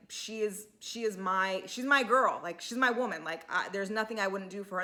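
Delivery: a heartfelt vow, lightly acted; mock-free, gently earnest retelling of a tearful declaration; touchingly sincere. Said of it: "Alex very touchingly".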